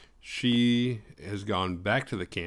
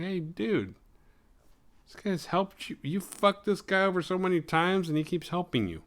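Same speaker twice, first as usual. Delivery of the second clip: mock scolding friend; 9 semitones higher than usual. Scolding Jason in voice.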